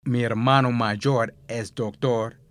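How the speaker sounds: "Mi hermano mayor es doctor" said slowly and clearly, each word set apart; slow, careful correction. Shown as a demonstration. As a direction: spell out the corrected sentence slowly, like a teacher. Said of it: "So he should have just said".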